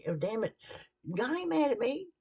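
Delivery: mock cursing. Voicing himself cursing at a cut.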